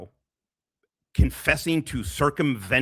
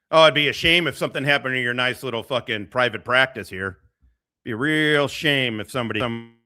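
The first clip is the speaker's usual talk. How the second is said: friendly threat. Acted. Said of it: "two dudes in a tracksuit being".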